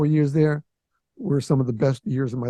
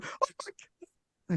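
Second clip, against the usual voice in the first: much higher, much softer, slow disbelieving gasp of words; stunned dismay; 13 dB quieter, much slower than usual. Retold or imitated. Soaked in his suit by the pump, slow soft high dismay. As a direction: breathe it out as soaking water ruins your suit. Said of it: "and I'm going".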